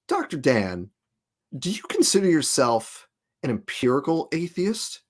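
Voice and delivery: imitating a smug questioner, deliberate pauses. Retelling Sam's question to Doctor Dan, mock smug. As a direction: put on mild smugness, spacing out the question. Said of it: "in that smug way".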